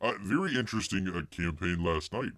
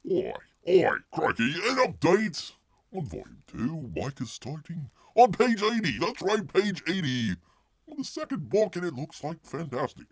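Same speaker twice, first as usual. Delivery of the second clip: loud, high hammed-up Aussie; bad Australian accent; 7 semitones higher, 4 dB louder than usual. Host reads a comic book update aloud, bad Australian accent. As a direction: put on a broad, badly faked Australian accent. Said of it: "oh, I tried a bad Australian accent".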